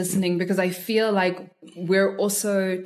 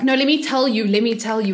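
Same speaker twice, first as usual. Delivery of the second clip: mock pushy; 3 semitones higher, 4 dB louder than usual. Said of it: "you're just like".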